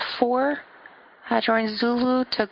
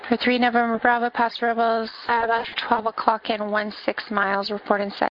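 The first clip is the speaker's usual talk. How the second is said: air traffic control radio. Acted. Controller reading clearances on frequency.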